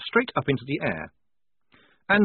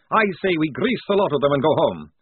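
high, louder rant; manic outburst; 4 semitones higher, 5 dB louder than usual. A narrator's reading. Crazed vampire proposing killing to the squad, manic. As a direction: burst out wildly to no one.

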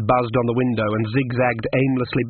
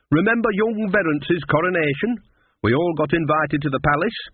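put-on higher, lilting old-friend gossip; lightly voiced Nanny figure, chatty; 6 semitones higher than usual. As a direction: reminisce in a lightly put-on character voice.

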